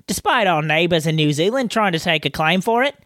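put-on a light Australian accent reading the listener's list; mildly Australian, reading the email aloud. Host reading Chris's pavlova entry in a light Australian accent. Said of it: "reading the emojis in that accent".

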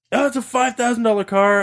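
lightly mocking brat voice; mocked brat. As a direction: mimic a spoiled kid protesting. Mimicking the rich brat.

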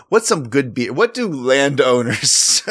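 slow pirate drawl. Acted. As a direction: growl it like a pirate. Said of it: "I sound like a pirate".

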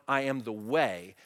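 slow, weighted "I am the way"; deliberate emphatic quote; emphasis. Shown as a demonstration. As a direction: say "I am the way" slowly, each word placed. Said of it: "The emphasis in the text is on".

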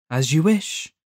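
harsh creature voice; obliging demon. A narrator's reading. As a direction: concede it like a sly demon. Demon grants Judd's wish.

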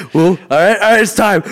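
high, excited self-imitation; mock battle-ready whoop; retold hyped-up charge. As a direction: psych yourself up, playfully. Acting his drunken charge inside.

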